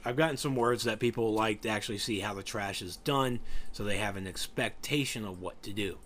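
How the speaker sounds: talking through a yawn; tired, yawning delivery. Real, not acted. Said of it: "Sorry I'm yawning so much".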